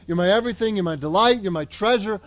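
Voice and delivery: loud opening cry to the Lord, then earnest; a believer praying with fervour; fervent prayer. Retold or imitated. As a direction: pour it out like a heartfelt prayer. Voicing a heartfelt prayer.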